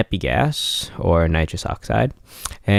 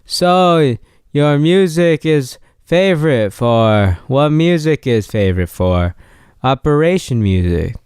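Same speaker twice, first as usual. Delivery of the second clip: loopy drugged voice; 4 semitones higher than usual. Retold or imitated. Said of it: "it came out more like".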